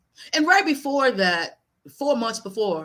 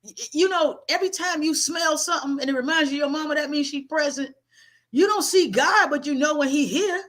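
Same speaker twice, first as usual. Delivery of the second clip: high, no-nonsense grandmother lecture; blunt grandmother lecture; 4 semitones higher than usual. Retold or imitated. Grandmother telling grieving grandson to get over it, blunt. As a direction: scold him straight like a blunt grandma. Grandmother's long scolding, voiced.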